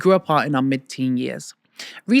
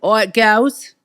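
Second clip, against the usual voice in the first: mimicking Clara; 5 semitones higher, 5 dB louder, much slower than usual. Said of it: "is that how you think I sound".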